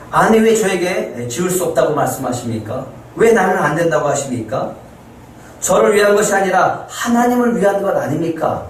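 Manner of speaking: rising, pleading protest; protesting to God. Pretend. Preacher imagining himself protesting to God, pleading protest. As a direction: argue your case with God. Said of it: "하나님한테 이렇게 항변할 것 같습니다".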